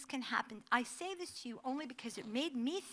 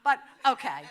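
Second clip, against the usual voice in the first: high, loud laughter breaking through the words; can barely talk for laughing; laughing hard; 8 semitones higher, 9 dB louder than usual. Real, not acted. Speaker laughs telling how her mother-in-law hung up on the fraudster.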